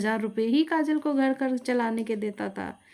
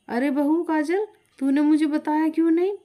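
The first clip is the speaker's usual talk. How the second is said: exasperated; 5 semitones higher, 4 dB louder than usual. Acted. Mother-in-law confronts daughter-in-law.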